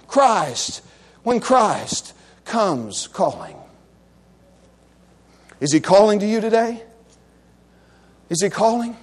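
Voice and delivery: low, measured appeal with long pauses; solemn preaching. Real, not acted. Preacher asking if Christ is calling, low and solemn. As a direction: let each phrase hang, grave and low.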